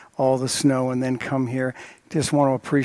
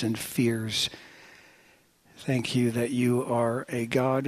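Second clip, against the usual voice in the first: spoken prayer; 3 dB quieter than usual. Real, not acted. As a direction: pray aloud in measured phrases with long pauses.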